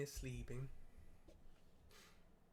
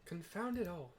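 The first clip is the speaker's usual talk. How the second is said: higher, louder frustrated outburst; exasperated curse; 5 semitones higher, 3 dB louder than usual. Acted. A hero cursing as the angry dragon wakes, higher and louder. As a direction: spit out the curse in alarm.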